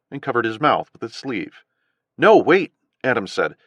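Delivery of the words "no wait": high, loud urgent plea. A narrator's reading. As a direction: stop them urgently.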